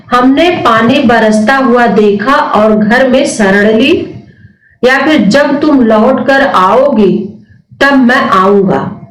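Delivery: slowed down, reading the options clearly. Shown as a demonstration. Teacher slowly reading answer options aloud to students. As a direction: read each option slowly. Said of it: "कौन सा संयुक्त वाक्य है".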